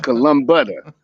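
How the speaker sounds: "Columbutter" slurred into one word; Southern-accent mispronunciation. Real, not acted. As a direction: say "Columbutter" for the name, Southern style. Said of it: "I got a accent and shit like that".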